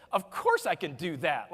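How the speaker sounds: cocky know-it-all demonstration; cocky, arrogant. Shown as a demonstration. Speaker showing the audience a line for partners, cocky and arrogant. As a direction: say it like you're totally put out. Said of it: "arrogant tone of voice".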